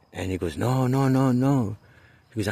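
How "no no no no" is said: stubborn refusal. Retold or imitated. Kid refusing.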